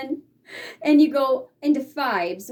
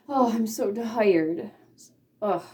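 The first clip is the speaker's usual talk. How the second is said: tired sigh demo; 2 semitones lower, slower than usual. Shown as a demonstration. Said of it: "look tired".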